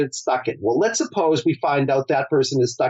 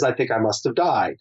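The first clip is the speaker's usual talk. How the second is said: dazed, defeated tone; 4 semitones lower than usual. Retold or imitated. Client realizing her own death, said low and stunned. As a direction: lower and hushed: I think I must have died. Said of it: "in that tone of voice".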